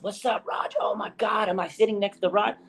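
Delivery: high, starstruck excitement on meeting him; hyped fan. Retold or imitated. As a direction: gush like a fan who just spotted his idol. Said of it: "he was hyped up to meet me".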